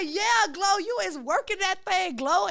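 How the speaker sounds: high-pitched hype-up of a friend; excited hyping. Retold or imitated. Retelling her compliment to a rapper on the red carpet, excited hyping.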